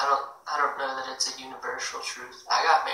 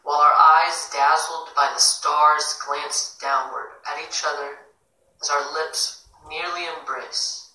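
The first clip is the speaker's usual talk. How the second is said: measured poetry recital, stressed words louder; poem reading; 5 dB louder than usual. Acted. Host reads a listener's poem to the live room, measured recital. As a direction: read the poem aloud with deliberate phrasing.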